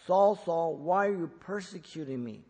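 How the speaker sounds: solemn voice of the Lord calling out; emphatic calling. Retold or imitated. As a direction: call Saul, Saul with strong emphasis, then the question. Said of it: "Twice for emphasis".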